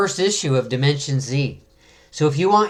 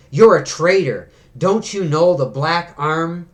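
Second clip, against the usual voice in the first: louder, a furious cry of traitor; angry accusation; 3 semitones higher, 3 dB louder than usual. Acted. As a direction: spit it at him as a betrayed comrade. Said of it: "He's really angry".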